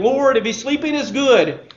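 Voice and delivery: clueless disciples. Acted. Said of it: "in their typical expected fashion".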